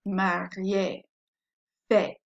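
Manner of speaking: "marié" and "fait" each ending in AY; final AY sound. Shown as a demonstration. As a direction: set "marié" and "fait" apart, both on AY. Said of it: "That's how we get the A sound".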